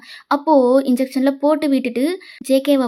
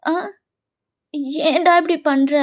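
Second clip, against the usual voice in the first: mild tearful wail, no real volume; understated, hurt, weepy reproach; acted wailing; 3 semitones higher than usual. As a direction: plead as if crying over a friend. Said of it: "அப்படின்னு செம்மையா அலறான்".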